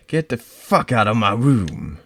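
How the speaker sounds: loud, high shouted order; furious shout. Acted. Cornered girl screams at the intruder to leave. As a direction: scream her out of the room.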